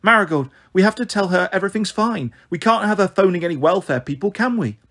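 put-on high, urgent child's voice; pleading child. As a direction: beg for backup, anxious and insistent.

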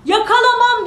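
high, loud defiant dog; shouted refusal. Acted. Dog refuses the giant's order, shouting. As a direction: yell it back in open defiance. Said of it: "diye bağırmış".

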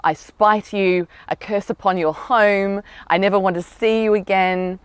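hammed-up hostile flower message; mock vicious curse. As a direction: lean into the curse, half-hammed. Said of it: "pretty aggressive, vicious messages like".

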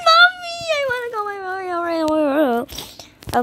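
high, loud whiny cry for mommy; hammed-up call for mommy while being chased; mock whimper. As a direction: whine like a frightened little kid. Scared, calling for mommy.

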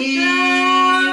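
squeaky thrilled squeal; high excited squeal. Real, not acted. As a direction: squeal with delight. Unboxing excitement.

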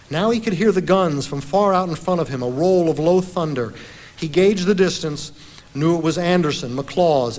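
dramatic history reading, pitched a little up; narrative reading aloud. A narrator's reading. Lecturer reading a battle account to the audience, dramatic narration. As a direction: read it out as suspenseful battlefield storytelling.

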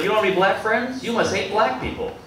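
high-pitched imitation of an accuser; mock accusation. People who jump right to racism accuse the comic, mock-indignant.

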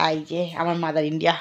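hushed whisper behind her back; teasing whisper about mum. Real, not acted. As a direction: whisper so mother won't hear. Sneaking a shot of mother.

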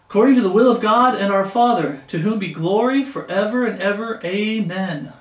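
loud verse proclamation, settling towards the amen; scripture reading. Acted. Preacher returning to the verse for believers, proclaiming scripture. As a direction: start the verse strong, ease into Amen. Reads scripture aloud to listeners.

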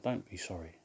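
low, hushed mock come-on; mock flirty. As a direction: murmur it like a cheeky flirt. Retold flirty prank on caller.

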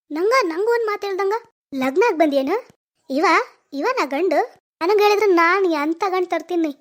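loud, high, furious berating; angry scolding. Acted. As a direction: tear into her for marrying without asking. Sister berates eloped sister.

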